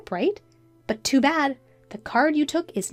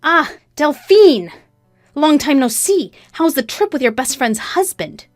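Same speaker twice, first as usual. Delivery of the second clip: high, loud, falsely delighted greeting; mock-friendly taunt; 5 semitones higher, 8 dB louder than usual. A narrator's reading. Wife greeting her husband's mistress, tauntingly cheerful. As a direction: gloat with sarcastic cheer.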